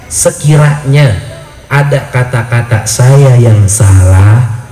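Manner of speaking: tender. Retold or imitated. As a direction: plead gently with your husband. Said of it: "Saya ngomong sama suami saya".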